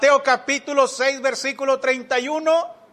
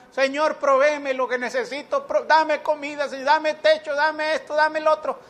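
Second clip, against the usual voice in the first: insistent begging prayer, slightly raised pitch; mock pleading; 2 semitones higher than usual. Preacher imitates a believer begging God for things, pleading. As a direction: rattle off requests like a needy supplicant. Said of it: "Ahí está usted rogando".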